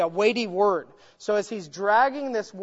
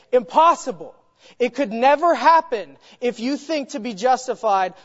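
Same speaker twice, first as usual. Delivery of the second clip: impassioned declaration; 5 dB louder than usual. Retold or imitated. Teacher acting out the writer's forceful point, impassioned. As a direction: proclaim it like a preacher with raised hands. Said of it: "lifting his hands and just saying".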